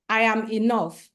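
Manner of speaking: firm affirmation for all to repeat; booming affirmation. Shown as a demonstration. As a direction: declare it proudly to the room. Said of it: "repeat after me".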